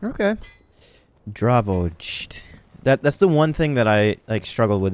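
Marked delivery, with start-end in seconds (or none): 1.3-2.4 "Dravost" sounded out slowly for oneself; trying out pronunciation. Shown as a demonstration. Player testing the village name "Dravost", careful pronunciation. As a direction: attempt "Dravost" in an American accent. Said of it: "figure out how I would pronounce it".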